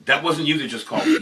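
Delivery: words broken by laughter; laughing. Real, not acted. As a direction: laugh through the question. Laughing while retelling.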